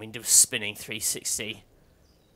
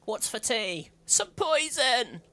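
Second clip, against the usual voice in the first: high, sing-out family role-play; playful high-pitched mealtime call; mock teatime exchange; 12 semitones higher, 3 dB louder, slower than usual. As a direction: pitch it up high, stretching the last words. Playing child and mum at teatime.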